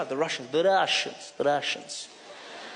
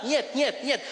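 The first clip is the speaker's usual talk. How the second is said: mock Russian gibberish. Russian guy switching to his language, fake gibberish. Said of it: "vinyl backwards".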